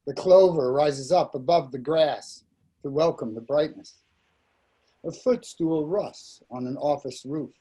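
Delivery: measured verse recital with falling line endings; poetry reading. Acted. Poet reads his Dakini poem to listeners, measured recital. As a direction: give each image its own phrase, then pause.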